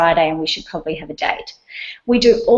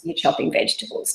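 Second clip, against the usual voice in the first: softly whispered, breath only; 3 semitones lower, 6 dB quieter than usual. Shown as a demonstration. Mum showing mindful focus, whispered. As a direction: drop to a hushed whisper on you're chopping vegetables. Repeats phrase, second take hushed.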